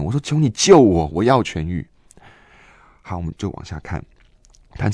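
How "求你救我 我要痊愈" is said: louder cry for rescue, fading at the end; inner cry. Retold or imitated. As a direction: plead to be saved. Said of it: "我心中就在大喊". (心中大喊求救)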